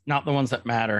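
understated, matter-of-fact retort. Retold or imitated. Host quoting Crosshair's answer, matter-of-factly. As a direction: say it evenly, as a simple fact. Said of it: "just so matter-of-factly".

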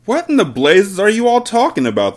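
high, baffled yell; angry yell. A narrator's reading. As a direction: yell it as the exasperated father. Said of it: "the father yelled".

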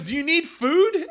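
lady calling back, offering food; shouted concern. Retold or imitated. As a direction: ask loudly and slowly over a distance. Lady calls back across field.

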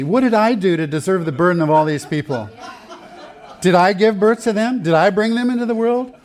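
high, loud, laughing exasperated plea to God; hammed-up Moses complaining to the Lord. Preacher acting Moses pleading with God, high and loud. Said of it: "Moses said to the Lord".

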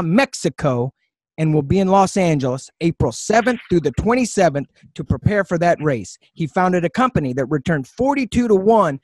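dramatic promo-style intro read; announcer voice. Pretend. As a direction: introduce him like a big event announcer. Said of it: "in my best announcer voice".

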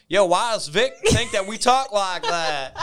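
mock Pine Bush local. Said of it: "they might say".

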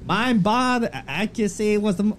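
failed Irish that lands on New York; attempted Irish accent. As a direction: try McGregor's Irish accent, badly. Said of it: "Read it in his accent".

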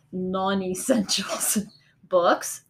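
slow guilty whisper. Real, not acted. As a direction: confess it under your breath. Confessing guilty spending, unvoiced.

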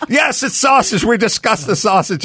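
laughing, high mock voice of an exasperated Olga; mock exasperated answer. Narrator mocking Olga's flat answer, laughing high. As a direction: laugh through a sing-song reply.

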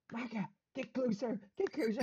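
high, held-back mock yell; teammates calling out. Teammates urging Micah forward, high mock calling. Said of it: "But everyone's going".

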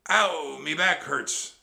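loud, high pirate complaint; yelp, then whine loudly; pained cry. A narrator's reading. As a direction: cry out about an aching back. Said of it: "Stinky cried".

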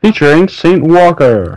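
high-pitched showy billing; high, playful announcer flourish; mock announcer billing. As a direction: announce a featured guest with mock grandeur.

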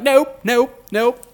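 high, loud sing-song nope nope nope; mock her stubborn refusal. Teller mocks the driver's refusal, sing-song.

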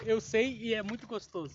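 sensual. Shown as a demonstration. Prompting a friend with the sexy line, lightly sensual. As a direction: say it low-key and seductive. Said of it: "do jeito sensual".

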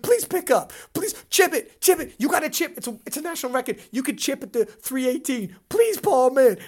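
loud, urgent begging on the phone, half-mock; retold pleading. A coach phoning the handler, retold loud urgent pleading. Calling Paul, begging him.

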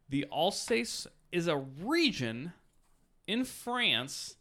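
tipsy, slow reading. Real, not acted. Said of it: "I'm getting drunk".

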